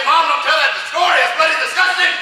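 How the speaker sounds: mock shout at mom. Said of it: "I say".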